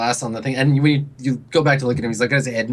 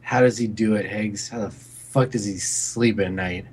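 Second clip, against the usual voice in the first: put-on drunk brooding; 5 semitones lower than usual.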